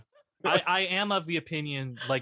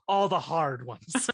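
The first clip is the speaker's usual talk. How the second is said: lightly done Shatner halting list; slow halting delivery of you know, all the hard ones; Shatner-ish retelling; slower than usual. Retold or imitated. Retelling the roast punchline with a hint of Shatner halting. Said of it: "That's the impression".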